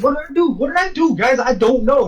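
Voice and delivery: high, frantic retold pleading; mock panic. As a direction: act out someone flustered and protesting.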